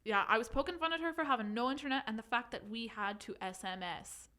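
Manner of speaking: put-on reading in a light Irish accent; a gentle Irish lilt throughout. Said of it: "do you think I could do it in Irish?".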